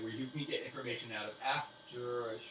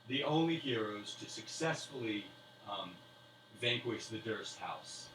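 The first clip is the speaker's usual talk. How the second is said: grand slow toast; slower than usual. Acted. NPC speech at banquet.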